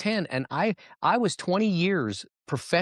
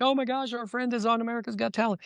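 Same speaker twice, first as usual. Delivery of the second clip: high, gushing friend voice; excited friends; 9 semitones higher than usual. Retold or imitated. Friends in Austin cheering their friend on TV, high and gushing. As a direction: squeal it like thrilled friends watching TV. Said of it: "they're all like".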